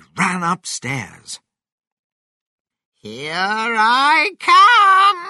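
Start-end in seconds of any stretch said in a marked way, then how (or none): 3.0-5.3 shrill, booming, full-throated high shout, drawn-out "I". Narrating a story, voicing Grandma as she grows through the ceiling: shouted. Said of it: "shouted Grandma".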